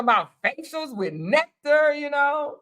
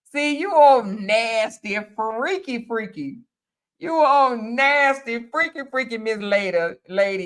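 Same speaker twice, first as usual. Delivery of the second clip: teasing. Real, not acted. Teasing a viewer's comment.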